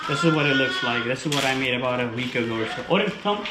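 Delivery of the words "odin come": high, crisp command call; dog command. Real, not acted. Trainer calling Odin to come, high command.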